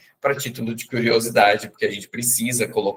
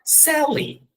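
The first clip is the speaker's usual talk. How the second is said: much higher voice for Sally; woman's voice. Retold or imitated. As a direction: answer her name like the woman. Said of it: "E ela fala". (imitando a voz da Sally, bem aguda)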